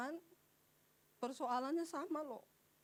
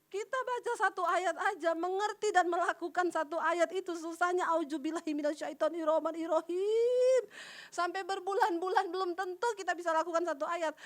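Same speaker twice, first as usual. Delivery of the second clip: preaching at full force; 2 semitones higher, 6 dB louder than usual. Acted. Preacher exhorting congregation.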